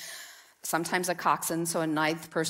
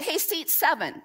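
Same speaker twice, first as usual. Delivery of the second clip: coach calling out; 7 semitones higher than usual. Retold or imitated. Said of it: "she would call out".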